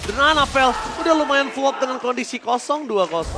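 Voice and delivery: energetic live play-by-play; esports caster. Real, not acted. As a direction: narrate the teamfight live.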